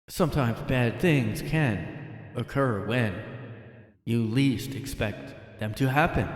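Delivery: slow, ominous creepy-channel narration; mock a creepy YouTube narrator, drawn out slow; spooky narrator. Creator mocking the narrator, in a slow spooky voice.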